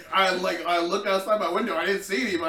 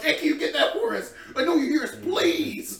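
high pleading call; 9 semitones higher, 4 dB louder than usual. Retold or imitated. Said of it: "They were like".

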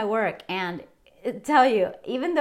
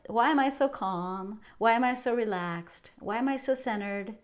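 calm affirmation; 4 dB quieter than usual. Shown as a demonstration. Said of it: "the affirmation that I'm using".

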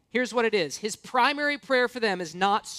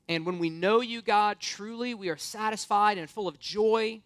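prayer. Acted. Leads the congregation in prayer.

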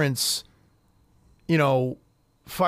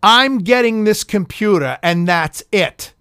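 retold teen scream, louder and very slow; 3 semitones higher, 5 dB louder, slower than usual. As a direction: stretch each word out like a spoiled girl yelling in the store.

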